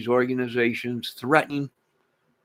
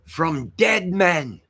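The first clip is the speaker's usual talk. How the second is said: ominous, drawn out; 5 semitones higher, much slower than usual. Real, not acted. Ominous slow repeat.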